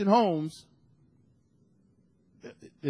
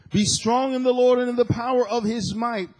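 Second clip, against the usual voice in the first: louder, higher scripture proclamation; proclaiming; 5 semitones higher, 5 dB louder than usual. Real, not acted. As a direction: announce the verse with force.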